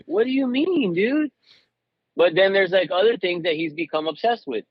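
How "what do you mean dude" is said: high-pitched, incredulous retort; mock dismay. Dad retelling his reply to his son quitting a film, high-pitched dismay. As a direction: protest in a raised voice, replaying your own disbelief.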